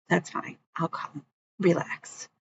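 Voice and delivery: soft, fading reassurance down to a breath; calm him down gently; quiet, whispered-out relax; soothing hush. Retold or imitated. Calming a panicking young friend.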